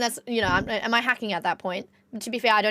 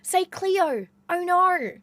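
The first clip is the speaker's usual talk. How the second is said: lightly imitating eager American fans, pitched up; a light mock of fans begging for the line; 7 semitones higher, much slower than usual. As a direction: streamer imitating American fans asking for her catchphrase. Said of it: "And they'll be like".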